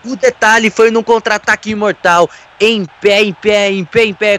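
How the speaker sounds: high, lively replay analysis; excited analysis. Real, not acted. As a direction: build on the repeated phrase.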